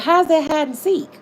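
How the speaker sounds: high-pitched disbelieving laughter; incredulous laughing. Real, not acted. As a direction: laugh at how absurd the story is. Laughing disbelief at hide and seek.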